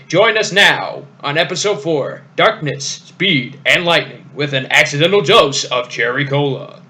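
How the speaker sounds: dramatic announcer voice. Shown as a demonstration. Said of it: "I got the perfect voice for it".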